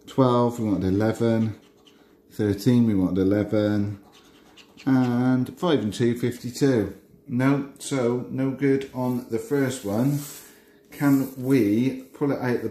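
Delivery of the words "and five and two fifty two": bingo caller. Acted. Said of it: "I start doing my bingo calls".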